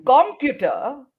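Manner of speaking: "computer" with COM lifted, slowly; slow demo, first syllable stressed. Shown as a demonstration. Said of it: "if you lift up one syllable".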